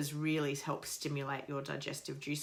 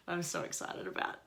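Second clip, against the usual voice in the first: whispered excitement. Real, not acted. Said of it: "I'm getting all teary".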